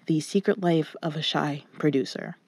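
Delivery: closet-muffled voice; dampened sound, little reverb. Real, not acted. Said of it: "I'm currently recording in my closet".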